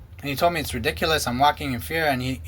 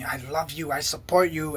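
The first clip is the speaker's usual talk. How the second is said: mock love bombing; 4 dB quieter than usual. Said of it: "he'd love bomb me".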